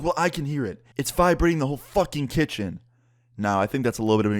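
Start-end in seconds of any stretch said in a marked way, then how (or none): 0.0-2.8 higher-pitched, overdramatic complaint; dramatic angry neighbor. Retold or imitated. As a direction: mimic an irate neighbor exaggerating. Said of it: "he was just being dramatic".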